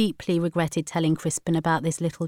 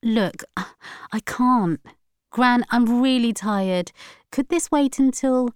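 higher, hesitant granddaughter voice; mildly weary protest; 6 semitones higher than usual. A narrator's reading. Tired granddaughter asking grandmother to wait, mildly pleading. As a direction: lightly plead to be let off.

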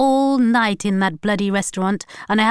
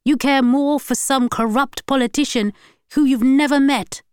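loud, higher, scornful voice; angry rant; 5 semitones higher, 5 dB louder than usual. A narrator's reading. Husband scorning his wife's tears, angry. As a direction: pour contempt on her grief.

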